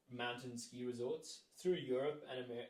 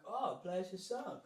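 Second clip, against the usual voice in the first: interviewer voice; 6 semitones higher than usual. Retold or imitated.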